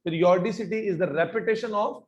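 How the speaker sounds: very slow, word by word definition; teacher dictating at a crawl; slow dictation. Shown as a demonstration. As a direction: spell it out slowly so students can repeat. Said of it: "मेरे साथ साथ याद करो".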